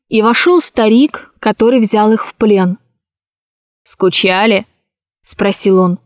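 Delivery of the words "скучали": even, indifferent voice. A narrator's reading. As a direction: ask as if you couldn't care less. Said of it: "Старик говорил ровным голосом".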